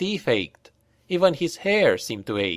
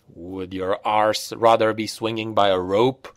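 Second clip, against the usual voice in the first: darkly; 3 semitones lower than usual. Acted. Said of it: "asked Vert darkly".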